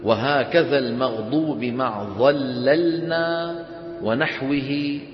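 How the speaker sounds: slow, measured verse recitation; slow chanted teaching verse; reciting didactic verse. Shown as a demonstration. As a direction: recite the tajweed poem line by line, drawn out. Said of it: "ثم قال رحمه الله".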